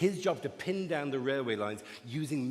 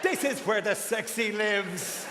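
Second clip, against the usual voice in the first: fussy stocking voice; 3 semitones higher than usual. Acted. Stocking voice continued.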